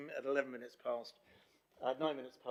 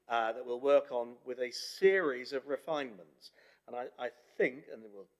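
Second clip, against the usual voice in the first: echo chamber; 3 dB louder than usual. Real, not acted. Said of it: "You sound like you're in a, an echo chamber".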